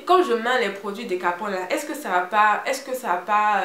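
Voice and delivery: lightly imitated Congolese accent; hint of a Congolese accent, hesitant question. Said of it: "avec l'accent congolais".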